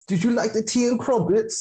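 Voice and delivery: dying words in a hammed-up British accent; mock British accent. Taunting a friend with dying words, mock British accent. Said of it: "our British accents".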